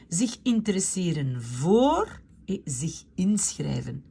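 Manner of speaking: Zich interesseren voor read out in a whisper; whispered to herself while reading. Shown as a demonstration. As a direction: murmur it half to yourself. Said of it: "reads the new verbs half to herself".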